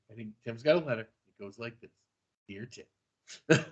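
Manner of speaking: low, soft radio countdown host; Casey Kasem. Acted. Host introducing a letter to Tim, radio-host impression. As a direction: read it like a radio letter dedication, hushed and low. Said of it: "it's the Casey Kasem thing".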